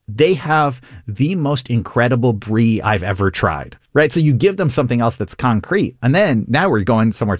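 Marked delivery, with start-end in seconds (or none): 0.1-3.8 savoring enthusiasm. Shown as a demonstration. Improv demo of building on offer.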